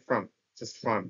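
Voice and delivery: "from" short and reduced, vowel almost gone; weak from. Shown as a demonstration. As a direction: clip "from" to a quick frm. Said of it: "from-টাকে তারা খুবই দ্রুত উচ্চারিত করে".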